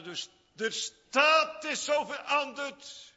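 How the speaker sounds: loud, high, fervent preaching. Acted. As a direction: preach it out at full force. Preacher at full force. (vurig preken, luid en hoog)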